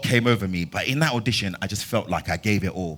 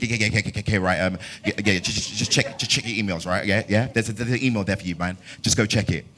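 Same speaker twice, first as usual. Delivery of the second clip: imitating stutter. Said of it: "'Cause Femi really stutters".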